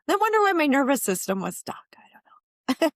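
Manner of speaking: breathy amused whisper to herself; laughing whisper. Real, not acted. Client realizing why her nervous system was stuck, whispering. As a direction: half-whisper a wry aside.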